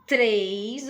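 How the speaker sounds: "três" with a clearly tapped R after the T; R batido. Shown as a demonstration. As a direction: say "três" slowly, tongue tapping for the R. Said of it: "ó, o sonzinho". ("três" com R batido, bem articulado)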